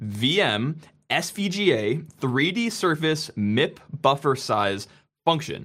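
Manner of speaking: very slow, deliberate, word-by-word reading. Presenter reads out a long technical function name: reading very slowly. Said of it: "I'm going to read this very slowly".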